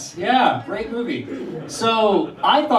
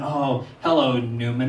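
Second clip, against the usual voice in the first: a hint of a disdainful, drawn-out greeting; lightly imitating Jerry's sneering hello; Jerry's Newman greeting; 4 semitones lower, slower than usual. Comedian quoting Jerry greeting Newman, mild disdain. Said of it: "When Jerry sees Newman".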